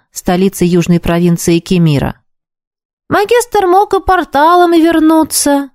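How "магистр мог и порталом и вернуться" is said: mouth full. A narrator's reading. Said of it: "давясь лепёшкой".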